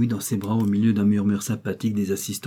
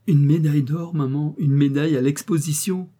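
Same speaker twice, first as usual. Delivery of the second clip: put-on excited child; 5 semitones higher, 3 dB louder than usual. A narrator's reading. Enfant exulte, serrant sa mère.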